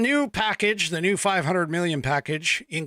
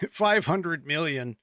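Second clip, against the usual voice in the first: laughing; slower than usual. Real, not acted. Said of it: "I'm laughing".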